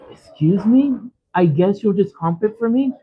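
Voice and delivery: high, incredulous echo; offended mock repeat; indignant disbelief. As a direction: throw his words back at him. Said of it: "And I'm like".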